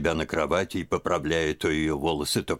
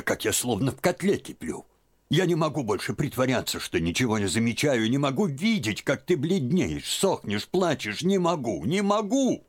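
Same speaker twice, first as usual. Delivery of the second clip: high and rising, building to a near-cry; worked-up old woman climbing higher to the end; agitated old aunt; 9 semitones higher than usual. A narrator's reading. Aunt pours out her worry. (старушка в волнении, всё выше и громче)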